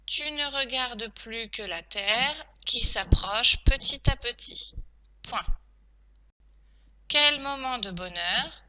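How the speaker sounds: slow teacher dictating, punctuation named; careful, spaced-out phrases; dictation. Shown as a demonstration. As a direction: dictate it chunk by chunk.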